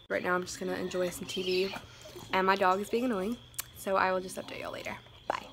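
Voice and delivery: whispered quick sign-off in front of the TV. Real, not acted. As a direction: hush it quickly so as not to disturb. Quiet update while watching TV.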